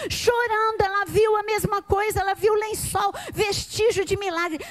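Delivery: preaching at full force. Real, not acted. Preacher stirring the church about Mary's tears, fervent shout. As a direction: build the fire, hammer chorando. Preaching climax, repeated chorando.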